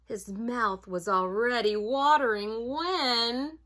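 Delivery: put-on animated storybook reading for children; story narration. A narrator's reading. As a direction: read it aloud to children, savoring key words.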